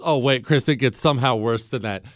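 usual speaking voice

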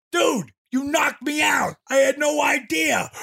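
high-pitched retold plea of innocence; protesting. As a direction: plead your case over their ranting. Acted backstage quarrel.

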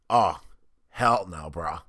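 raspy half-voiced imitation of Valeni; lightly voiced coach, hoarse; Valeni impression. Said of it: "terrible impression right now because I have no voice".

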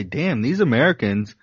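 hammed-up Australian grumbling, climbing to a squeal; imagined Australian listeners mocking Americans, mock accent. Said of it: "They might say".

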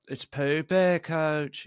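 lightly imitated British accent; a hint of a TV footballer's British accent; Jamie Tart. Fan quoting a favourite Ted Lasso character, imitated British accent. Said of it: "I love Jamie Tart".

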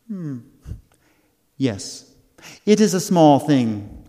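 lightly voiced fairy queen; a hint of an airy fairy; tiny tinkling fairy voice. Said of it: "said the fairy queen".

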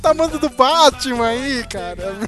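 loud, worked-up ranting; exasperated rant. Real, not acted. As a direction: rail at their blindness at full volume. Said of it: "Eu fico muito puto com isso".

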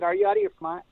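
mock outraged boss, voice leaping up; incredulous quote. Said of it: "the president of Warner Brothers said".

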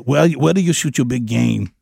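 put-on a light thick Afrikaans accent; hint of an Afrikaans big game hunter. The Afrikaans visitor asks Gary, in a light thick Afrikaans accent. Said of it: "It's almost like Arnold".

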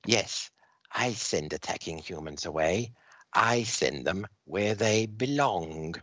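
a touch of cold satisfaction; alien villain. Acted. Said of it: "the Dominator says".

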